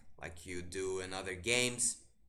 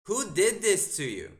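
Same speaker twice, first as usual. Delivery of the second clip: louder incredulous; 7 semitones higher, 5 dB louder than usual. Real, not acted. Streamer repeats the question, stronger.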